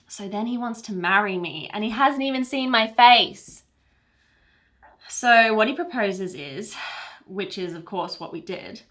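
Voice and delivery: lightly acted romance, building then settling tenderly; smitten storyteller. Bride recounts kiss and hospital wedding, smitten storytelling. Acts a monologue from a script.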